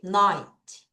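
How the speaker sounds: Ninety with strong NINE, faint ty; NINE-ty, ending barely voiced; weak ty. Shown as a demonstration. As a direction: hit NINE, nearly swallow ty. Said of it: "T를 약하게 읽어요".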